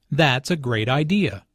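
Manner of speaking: "great" stressed, falling on "idea"; emphasis on GREAT. Shown as a demonstration. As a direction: lean on the word "great". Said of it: "emphasis on great".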